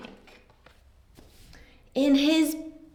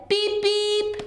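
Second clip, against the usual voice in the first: higher honking beep; truck beep; 8 semitones higher than usual. Acted. Teacher voicing Blue greeting Hen, bright beep. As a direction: honk like a toy truck. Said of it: "Blue said".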